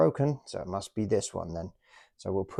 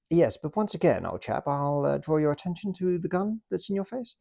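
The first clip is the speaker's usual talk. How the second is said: high, jolly British officer taking a prisoner; British toy officer politely arresting the German, in a high jolly voice; 7 semitones higher, 3 dB louder than usual. Pretend. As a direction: play the smug officer with the gun, pitched high. Acted toy soldiers' standoff.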